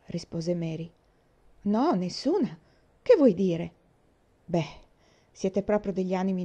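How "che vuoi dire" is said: louder, pressing question; asking again, louder and more urgent; insistent repeat. A narrator's reading. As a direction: push for the answer now.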